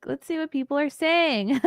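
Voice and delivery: laughing through the words; high and laughing. Real, not acted.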